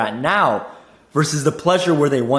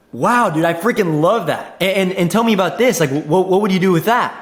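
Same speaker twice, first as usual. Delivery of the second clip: excited reply; 2 semitones higher than usual. Shown as a demonstration. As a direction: hype them up with real enthusiasm. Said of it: "that excitement in your voice".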